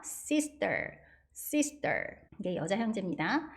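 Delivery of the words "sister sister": sister with tense s, sista; slow clear model. Shown as a demonstration. Teacher modelling sister slowly. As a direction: model sister for students to copy. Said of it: "시스터처럼 발음하셔야 됩니다".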